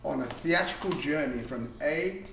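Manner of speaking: theatrical, showy director voice; hammed-up theatrical host; flamboyant director. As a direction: sweep in like a diva director. Flamboyant director greets class.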